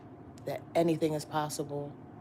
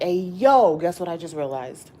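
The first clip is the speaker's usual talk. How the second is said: loud eager call upstairs; 9 dB louder than usual. Retold or imitated. Running upstairs to tell God, eager call. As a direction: burst in excited. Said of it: "I'm like".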